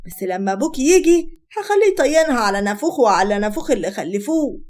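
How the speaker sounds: acted outrage, building in force; indignant mother. Mother defending daughter against her husband, indignant. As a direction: take your child's side with mild indignation.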